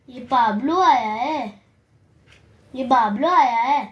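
singsong announcement with stretched vowels. Real, not acted. Announcing a bird to the pets. (लाड़ से खींचकर बोलना)

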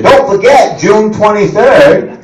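slow, official highway notice; slow mock road-closure announcement. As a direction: read it like a droning traffic bulletin. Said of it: "when they tell you".

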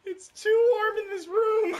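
high, loud, wheezing with laughter; crying laughing. Real, not acted. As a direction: laugh till it hurts.

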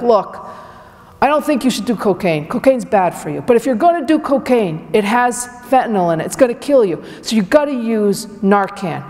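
lightly mock the Lowell fire chief's accent; terrible Lowell accent. Lowell fire chief on NPR warning cocaine users, in a bad, hammed-up Lowell accent. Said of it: "I do a terrible accent of him".

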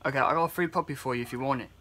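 lightly put-on Scots-Irish accent for a prank; attempted Scots-Irish accent. Prank caller offering a free puppy, in an attempted Scots-Irish accent. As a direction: try passing as a stranger with a Scots-Irish accent. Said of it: "apologize in advance for how awful my accent".

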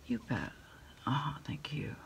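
ordinary delivery

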